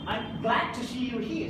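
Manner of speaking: "glad" punched above the other words; sentence stress. Shown as a demonstration. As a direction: put the emphasis on "glad". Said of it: "I'm giving stress somewhere here".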